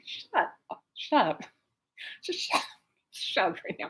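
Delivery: whispered, laughing shut up; inner voice. Retold or imitated. Her own mind telling dad to hush, whispered. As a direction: hiss it to yourself. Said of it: "my mind's like".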